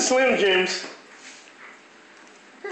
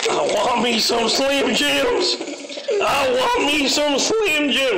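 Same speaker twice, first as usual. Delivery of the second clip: higher, eager dog voice speaking for the pup; voicing the dog; 6 semitones higher than usual. Owner voicing the dog's craving, eager and higher. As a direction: play the greedy dog begging for treats.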